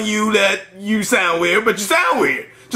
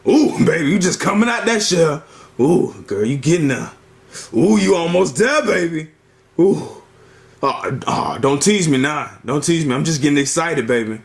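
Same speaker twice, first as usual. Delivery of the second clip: lustful low voice; 4 semitones lower than usual. Acted. Drooling over hatching chicks.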